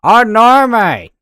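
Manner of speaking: loud, high Aussie "Oh, nar, mate!"; Australian accent. Pretend. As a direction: belt it out like a hammed-up Aussie. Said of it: "Not even an Australian accent here".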